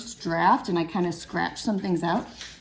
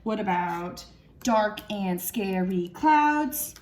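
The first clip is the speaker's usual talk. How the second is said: slow syllable count; 2 semitones lower, slower than usual. Shown as a demonstration. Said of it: "That's seven".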